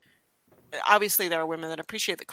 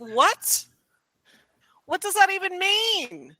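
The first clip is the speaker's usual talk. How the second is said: baffled disbelief; 11 semitones higher, 6 dB louder, slower than usual. Retold or imitated. Bikers baffled by uterus reply.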